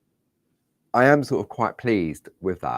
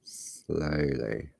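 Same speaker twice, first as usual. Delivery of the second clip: calm; 3 semitones lower, 8 dB quieter than usual. Real, not acted. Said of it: "I can't go slow".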